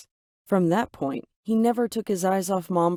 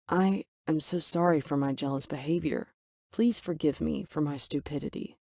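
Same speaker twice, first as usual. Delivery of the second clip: softer, remorseful apology; deeply apologetic; 4 dB quieter than usual. Acted. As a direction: plead for forgiveness softly. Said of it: "in a deeply apologetic voice".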